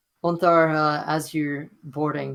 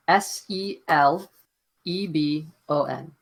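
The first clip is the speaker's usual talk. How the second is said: spelling it out. Shown as a demonstration. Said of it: "so I'm gonna spell it for you".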